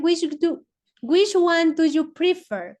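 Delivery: slow, careful English reading; English model sentence. Shown as a demonstration. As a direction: read the English slowly for the class. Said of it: "Ellos dicen". (pregunta en inglés, lenta y clara)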